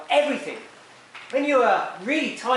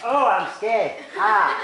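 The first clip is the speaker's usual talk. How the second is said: loud, hammed-up mock fear; deliberately badly faked fright; fake scared; 3 dB louder, much slower than usual. Shown as a demonstration. Teacher showing kids a wrong, fake scream, hammed-up and loud. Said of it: "you don't suddenly go".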